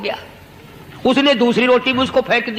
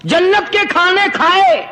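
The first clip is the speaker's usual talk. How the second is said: raised, pointed retort; the dog's reply; 4 semitones higher than usual. Acted. The talking dog answering the saint, indignant and raised. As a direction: turn the insult back on the saint, pitched high. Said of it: "کتے کو بھی زبان دی، اور وہ یہ کہنے لگا".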